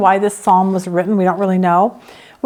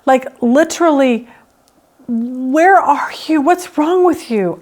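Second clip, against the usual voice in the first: slow, searching call into the night; exasperated calling out; 3 semitones higher, slower than usual. Retold or imitated. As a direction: demand answers from God, baffled. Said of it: "You're opening the curtain saying".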